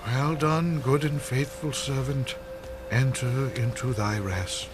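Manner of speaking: solemn blessing. Acted. Blessing over the dead Stephen.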